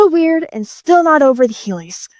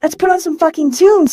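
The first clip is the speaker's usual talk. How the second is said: mildly triumphant, pitched higher; crowing; 5 semitones higher than usual. Acted. Newly made car starting the radio, crowing. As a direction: crow it with raised pitch. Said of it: "he crowed".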